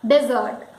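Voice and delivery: "dessert" as dih-ZERT; correct dessert. Shown as a demonstration. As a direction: say "dessert" with short first vowel, dih-ZERT. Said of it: "it is dessert".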